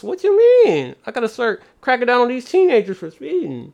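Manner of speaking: high, whiny mock cop complaining; a whiny cop worried about quotas. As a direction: whine like a cop missing his bonus.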